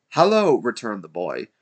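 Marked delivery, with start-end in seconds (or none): 0.1-0.6 put-on high, loud boy's hallo; calling back. A narrator's reading. Boy returning Scrooge's greeting, loud high call. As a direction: holler a greeting upward.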